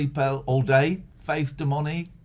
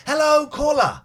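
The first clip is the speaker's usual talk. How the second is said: radio host voice; 10 semitones higher, 7 dB louder than usual. Acted. Radio host greeting caller.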